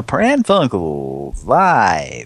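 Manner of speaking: slow, drawn-out, loud show intro; mock announcer. Host reopening the live show as a drawn-out announcer. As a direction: stretch the name like a live TV announcer.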